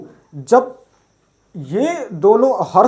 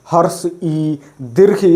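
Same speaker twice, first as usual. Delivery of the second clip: put-on childish sing-song recitation. Shown as a demonstration. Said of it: "इस तरह से नहीं बोला जाता है".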